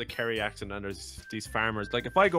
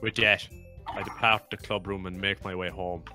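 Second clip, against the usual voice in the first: put-on light Irish accent reading; 5 dB louder than usual. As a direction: read it in an Irish lilt. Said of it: "it's hard to talk in an Irish accent".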